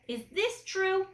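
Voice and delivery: lightly voiced angry mother pressing for the truth; stern question. Mother confronting her son about the swap, a touch of stern anger. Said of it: "when she's very mad".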